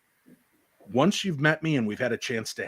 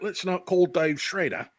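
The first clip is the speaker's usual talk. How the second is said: mock Cockney, slightly high; bad Cockney accent; 4 semitones higher than usual. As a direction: Dick Van Dyke style fake Cockney. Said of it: "I was talking all Cockney or whatever".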